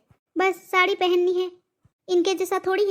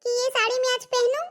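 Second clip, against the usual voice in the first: butter her up in a higher voice; sugary daughter-in-law; 5 semitones higher than usual. Acted. Daughter-in-law coaxes mother-in-law to wear the sari, higher and sweet.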